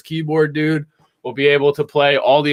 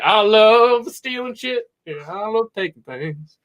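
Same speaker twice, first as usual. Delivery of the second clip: slow, laughing robot voice with a higher pitch; greedy robot; 6 semitones higher, slower than usual. Retold or imitated. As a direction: gloat over loot while chuckling. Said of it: "Walks around like".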